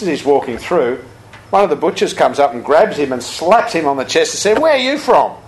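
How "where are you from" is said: higher, hearty butcher shout; a burly butcher hollering a greeting; rough butcher. Retold or imitated. Rough butcher grabs the monk.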